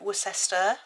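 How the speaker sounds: "Worcester" sounded out as wuh-SESS-ter; American mispronunciation. Shown as a demonstration. Teasing Americans on county names, "Worcester" as wuh-SESS-ter. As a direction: stretch "Worcester" to three syllables, stress in the middle. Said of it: "you pronounce it".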